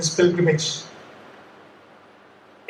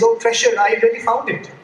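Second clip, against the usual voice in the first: higher, eager burst of joy; eyes lighting up; 5 semitones higher than usual. Retold or imitated. Poor man lights up at the word treasure, gleefully excited. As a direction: blurt it out as if suddenly remembering. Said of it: "this poor man's eyes lit up".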